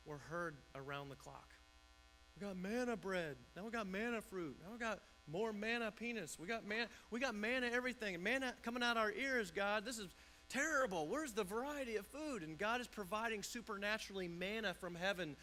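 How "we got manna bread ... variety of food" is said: mock whining. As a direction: build the moaning up, fed up with manna. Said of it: "the people's complaints".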